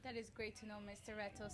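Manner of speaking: talking with the hiccups; hiccuping between words. Real, not acted. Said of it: "Sorry, I got the hiccups right now".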